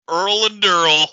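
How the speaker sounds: hammed-up actor botching a line; mocking bad line read. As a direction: imitate an actor's terrible, over-loud take. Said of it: "I could never unforget that read".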